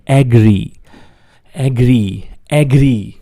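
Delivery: એગ્રી said slowly and clearly as e-gree; crisp teacher model of એગ્રી; English agree drill. Shown as a demonstration. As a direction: model એગ્રી for the class to repeat. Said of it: "બોલો".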